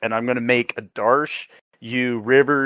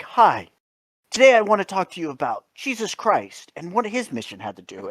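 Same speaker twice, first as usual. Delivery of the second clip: mock narrator; 3 semitones higher than usual. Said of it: "it's just like".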